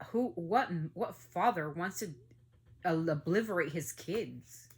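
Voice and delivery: appalled slow-building fury; outraged disbelief. Real, not acted. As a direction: spit each word out slowly in disbelief. Angry rant over child killings.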